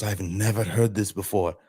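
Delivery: retelling the imam's rising, amazed praise in a lifted voice; retold imam, amazed and beaming at a brilliant idea; imam's excited praise. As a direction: play him thrilled at a new idea, carried away. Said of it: "He goes".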